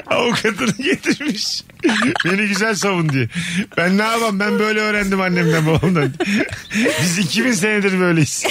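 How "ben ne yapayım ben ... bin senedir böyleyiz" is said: lightly put-on Central Anatolian village accent; mock stork in rural Anatolian dialect. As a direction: play the stork with a countryside twang. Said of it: "Diyor, şiveli".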